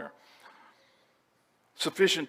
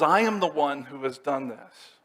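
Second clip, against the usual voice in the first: "I" pitched up and hit hard; emphatic I. Acted. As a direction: punch the opening "I", then ease down. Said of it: "It's emphatic".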